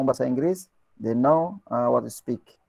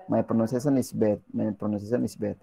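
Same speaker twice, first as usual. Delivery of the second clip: mock complaint, fading; 3 semitones lower, 4 dB quieter than usual. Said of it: "jangan pernah katakan".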